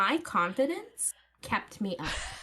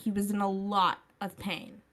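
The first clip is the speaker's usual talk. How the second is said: put-on Valley girl accent. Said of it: "The Valley Girl accent makes it so much better".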